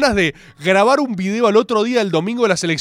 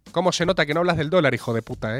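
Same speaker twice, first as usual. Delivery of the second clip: commenter; 5 semitones lower, 4 dB quieter, faster than usual. Retold or imitated. Voices a hostile online commenter.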